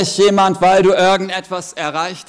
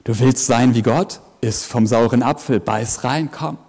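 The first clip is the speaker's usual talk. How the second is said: low, soft coaxing hiss; serpent's voice; 5 semitones lower, 4 dB quieter than usual. Acted. Serpent coaxing Eve to bite, low and sly. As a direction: tempt quietly like the snake. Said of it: "Die Schlange sagt".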